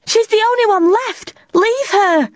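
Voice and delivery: high, pleading cry; begging. A narrator's reading. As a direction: beg them with all your heart. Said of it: "Tilly begged".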